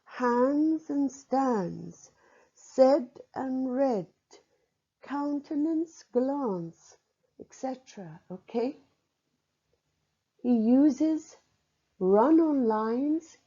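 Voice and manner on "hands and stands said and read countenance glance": "hands and stands", "said and read" drawn out slowly in pairs; rhyme words picked out. Shown as a demonstration. Lecturer sounding out rhymes for students, each pair set apart. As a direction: list "countenance, glance" word by word, higher. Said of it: "so that we hear".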